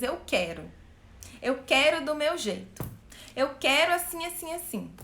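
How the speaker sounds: lightly voiced child insisting on its own way; inner child demanding. Inner child demanding its way, lightly voiced bratty child. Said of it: "É ela que diz".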